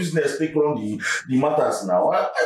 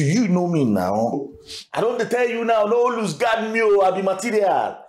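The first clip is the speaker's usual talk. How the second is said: boastful; 6 semitones higher than usual. Acted. Boasting of money soon coming.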